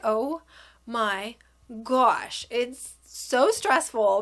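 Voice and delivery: word by word, with pauses; drawn-out, mildly overwhelmed exclamation; stressed exasperation. Retold or imitated. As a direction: spell out the stress slowly. Retelling her stressful week.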